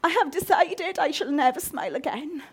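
theatrical mock sulk. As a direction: ham up a sulky declaration. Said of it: "we wake up and go".

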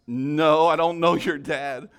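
loud, drawn-out mock denial; emphatic denial, retold. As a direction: act out a firm no.

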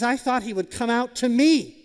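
a proud general complaining loudly; angry Naaman. Retold or imitated. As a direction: huff with wounded pride. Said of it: "Naaman is really angry".

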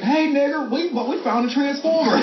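high-pitched, hammed-up excited discovery; excited movie character, played for laughs; mock excitement. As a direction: blurt out big news, half laughing.

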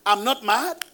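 a mild American "mad" imitation; imitating American way. Shown as a demonstration. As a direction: say "I'm not mad" the way Americans do. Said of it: "let me say it your way".

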